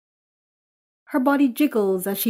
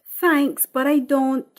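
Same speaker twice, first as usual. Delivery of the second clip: reluctant daughter; 5 semitones higher, 5 dB louder than usual. Acted. Daughter shudders, declines.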